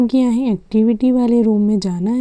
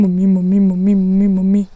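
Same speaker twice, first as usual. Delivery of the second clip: calling mummy; 2 semitones lower, 4 dB louder, faster than usual. Acted. Child calling mother urgently.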